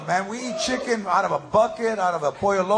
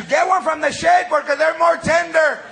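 yelled instruction; 4 semitones higher, 3 dB louder than usual. Retold or imitated. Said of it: "they're yelling at you".

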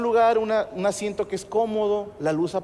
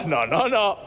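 flustered shouting denial; urgent denial; slower than usual. Retold or imitated. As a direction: cut her off fast. Stopping wife's misunderstanding.

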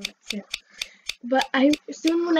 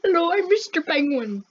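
penguin character voice; 4 semitones higher than usual. Pretend. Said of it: "My name is Penguin".

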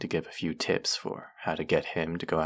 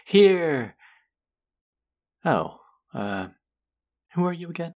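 mock confusion; 11 semitones higher, 6 dB louder than usual. Mock forgetting the listener.

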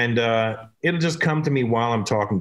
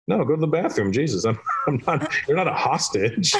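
mock exasperation, pitched up; exasperated; 3 semitones higher than usual. Comedian to an audience member needing the bathroom, exasperated. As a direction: plead in laughing disbelief.

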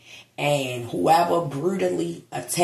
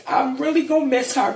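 high, fast, tearful; real crying, high and fast; voice breaking; 8 semitones higher, faster than usual. Real, not acted. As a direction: choke it out through tears. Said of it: "I'm trying not to cry".

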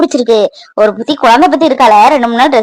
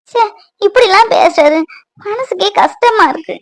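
sad; 4 semitones higher than usual. Acted. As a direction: sink into the sadness. Hurt wife alone, softer.

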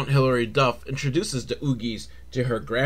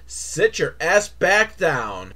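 slow, drawn-out sit-down command; deflated mock order; slower than usual. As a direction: drop the cheer, order them down slowly. Mock cue for children to sit.

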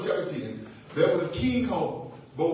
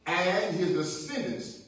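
measured scripture, spaced phrase by phrase; real slow reading; much slower than usual. Real, not acted. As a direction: read slowly, letting each phrase settle. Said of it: "I'm gonna read it real slow".

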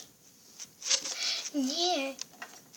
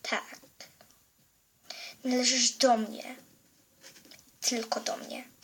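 menacing whisper; 2 semitones lower, 7 dB quieter than usual. Acted. Villain claims the girl softly.

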